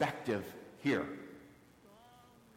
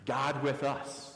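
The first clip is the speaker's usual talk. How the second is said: slow and deliberate; slower than usual. Shown as a demonstration. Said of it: "which means".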